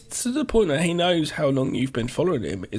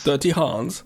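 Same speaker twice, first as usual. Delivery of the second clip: mock sleazy name. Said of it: "I made that sound like a bad porn movie".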